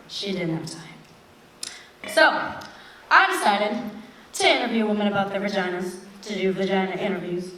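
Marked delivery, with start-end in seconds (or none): 0.1-2.1 soft, slow, breathy murmur; hushed echo. Retold or imitated. Mocking the busy businesswoman in a hush. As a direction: let the excuse fade to a whisper. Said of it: "repeated as hushed echo".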